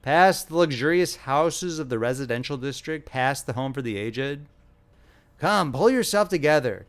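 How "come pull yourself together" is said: commanding. Acted. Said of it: "commanded the nurse".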